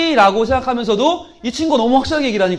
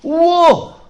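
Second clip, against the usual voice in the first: wow; 5 semitones higher, 4 dB louder, much slower than usual. Acted. Puppet character exclaims.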